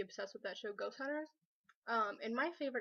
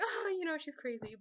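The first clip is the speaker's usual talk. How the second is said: high, loud, amused dismissal; imitated laughing mom; 5 semitones higher, 4 dB louder than usual. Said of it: "my mom laughed at me".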